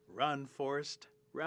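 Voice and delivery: slow, loud call, last word stretched; drawn-out cheer. Acted. Rabbit urging Forest onward, long hollered call. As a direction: urge a runner on across distance. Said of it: "Rabbit stops and says".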